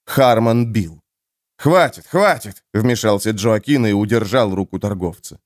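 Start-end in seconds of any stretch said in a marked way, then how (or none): 1.6-2.6 окрик. Acted. Джоакин останавливает избиение.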